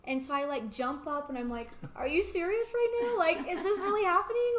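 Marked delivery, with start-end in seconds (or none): 2.0-4.5 much higher, much louder, thrilled disbelief; reliving the moment she hears her name; disbelieving shriek. Retold or imitated. Gymnast retelling making the team, shrieking in disbelief.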